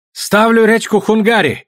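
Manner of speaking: high, pressing cry; shouted bet. A narrator's reading. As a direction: call out a desperate stake. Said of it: "кричал Ченза".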